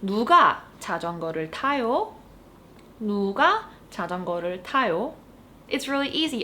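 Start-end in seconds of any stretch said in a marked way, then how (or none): 0.0-2.1 fast, native-speed Korean question; fast model question. Shown as a demonstration. Teacher modeling the Korean question quickly. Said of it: "all you need to do is say". 3.0-5.1 fast question with a clear rise at the end; fast repeated question. Shown as a demonstration. Teacher repeating the question for learners. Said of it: "all you need to do is say".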